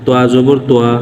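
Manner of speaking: "তোয়া জবর তোয়া" spelled out, ending on a long open aa; jobor vowel demo. Shown as a demonstration. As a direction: recite "তোয়া জবর তোয়া" as letter, vowel name, then syllable. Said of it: "জবরের উচ্চারণ করতেছি". ("তোয়া জবর তোয়া", জবরের উচ্চারণ দেখিয়ে, শেষে লম্বা আ)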